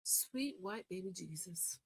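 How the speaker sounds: exasperated mutter. Real, not acted. Exasperated aside.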